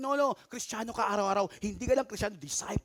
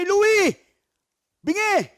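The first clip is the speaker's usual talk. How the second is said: sharp mock yell, much higher and louder; sigaw; 10 semitones higher, 10 dB louder, slower than usual. Shown as a demonstration. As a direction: bark the name like calling someone deaf. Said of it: "Ang ganun". (pasigaw na panunukso)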